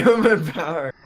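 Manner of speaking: laughing through the chant. Real, not acted. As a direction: echo the slogan while laughing. Echoes the joke chant.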